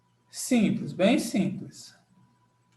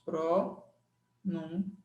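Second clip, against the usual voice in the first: soft repeat; 3 semitones lower, 7 dB quieter, much slower than usual. Shown as a demonstration.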